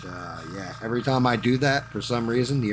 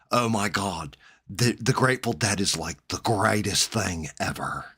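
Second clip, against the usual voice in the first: stoner voice. Retold or imitated. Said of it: "start talking like this".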